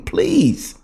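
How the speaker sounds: high, slow imitated begging; hammed-up high-pitched begging to Trump; begging plea. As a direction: plead way up high, dragging the words out. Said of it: "they're begging and pleading".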